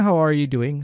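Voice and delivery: "How are you doing?" with every word sounded; clearly separated "How are you doing?", "are" kept; full written form. Shown as a demonstration. Teacher showing what learners expect, fully pronounced "How are you doing?". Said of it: "Ini kan intuisinya".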